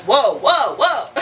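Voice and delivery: mild mock startle, rising in pitch; dizzy alarm. Pregnant woman standing up too fast, dizzy alarm. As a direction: act out a light dizzy wobble. Acts out sudden dizziness.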